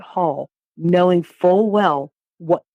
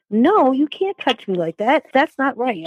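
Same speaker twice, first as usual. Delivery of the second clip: higher-pitched, insistent objection; recalled refusal, voice raised in pitch but not volume; retold protest; 7 semitones higher than usual. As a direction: re-enact standing up to him.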